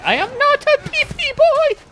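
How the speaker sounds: mock-indignant squeal of denial; squealing protest. Real, not acted. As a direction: protest shrilly in mock outrage.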